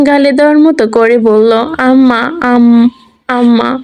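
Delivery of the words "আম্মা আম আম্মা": put-on slow, lightly sobbing little girl; crying child. A narrator's reading. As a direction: call for mum through tears. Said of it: "কেঁদে দিল". (ধীরে কান্নাভেজা শিশুকণ্ঠ)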